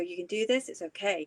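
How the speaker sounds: soft, acted soothing tone. The speaker recalls coaching themselves through a terrifying new job, retelling a soothing self-talk voice. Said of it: "that soothing voice".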